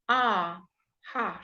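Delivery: ah held, then heart; vowel then word. Shown as a demonstration. Teacher breaking heart into its vowel. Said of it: "teaching you very clear pronunciation".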